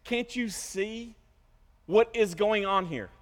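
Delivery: slow, mock-patient sarcasm; smart-aleck sarcasm. Imagined Peter answering Jesus, smart-aleck sarcasm. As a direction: spell it out sarcastically. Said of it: "This is where the sarcasm would ensue".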